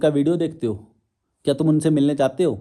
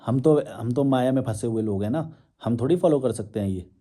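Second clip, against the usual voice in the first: mocking followers' excuse; 3 semitones lower than usual. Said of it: "फिर तुम मेरे को भगवान बना के".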